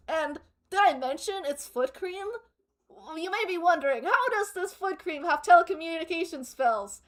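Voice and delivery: cheery foot cream commercial; cheerful ad with eerie menace. Pretend. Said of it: "Best advertiser voice?".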